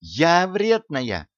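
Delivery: high, drawn-out incredulous retort; indignant echo. A narrator's reading. Slim girl answering the charge of being spiteful, indignant. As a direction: throw the accusation back, slow and high.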